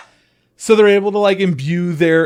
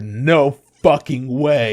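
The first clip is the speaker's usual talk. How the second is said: "No fucking way" slowed right down, word by word; "No fucking way" in slow, weighty beats; emphatic refusal; 4 dB louder, much slower than usual. Retold or imitated. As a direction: draw out "No fucking way" as a firm refusal. Acted flat refusal in retold argument.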